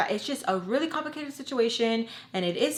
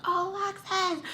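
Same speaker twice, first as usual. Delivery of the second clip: high-pitched retold cry; Tommy; 10 semitones higher than usual. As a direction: imitate someone shrieking in your ear. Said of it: "Tommy screaming in my ear".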